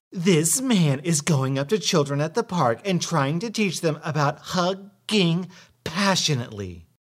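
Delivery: high, scandalized tattle; tattling entitled mother. Acted. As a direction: tattle with mock outrage. Entitled mother tells passerby.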